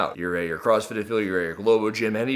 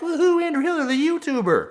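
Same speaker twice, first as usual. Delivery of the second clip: much higher, hammed-up cheer for himself; mockingly pat yourself on the back; mock self-praise; 3 dB louder than usual. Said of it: "pat myself on the back".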